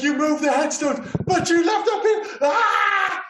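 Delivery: high-pitched meltdown climbing into a yell; imitated screaming breakdown. Host imitates the father screaming in the dude's face, hysterical. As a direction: build from outraged accusation to a scream. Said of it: "starts screaming in the dude's face".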